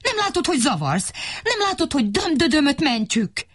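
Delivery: high, impatient scolding; angry shooing. Acted. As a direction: drive her away sharply. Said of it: "feléje fordult".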